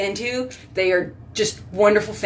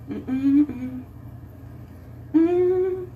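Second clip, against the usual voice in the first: short wordless hums, rising higher; drawn-out higher "mm"; appreciative humming; 7 semitones higher, 6 dB quieter than usual. Real, not acted. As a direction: hum with closed lips. Wordless hum between remarks.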